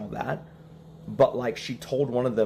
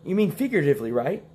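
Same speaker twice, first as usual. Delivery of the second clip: higher, lightly acted worried questioning; mock concern; 7 semitones higher, faster than usual. What the lawyer didn't ask the wife, mock concern. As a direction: lift it into an incredulous check. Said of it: "He didn't say".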